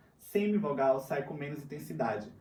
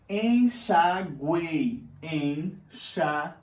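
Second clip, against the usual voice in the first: "enxaguei" bem lento, sílaba por sílaba; sílabas separadas; 5 dB louder, much slower than usual. Shown as a demonstration. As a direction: silabe "enxaguei" mantendo "guei" inteiro. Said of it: "são exemplos de tritongo". ("enxaguei" pausado, com "guei" numa só sílaba)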